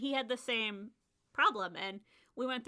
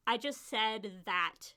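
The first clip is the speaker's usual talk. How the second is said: laughing at herself; much slower than usual. Retold or imitated. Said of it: "you're like".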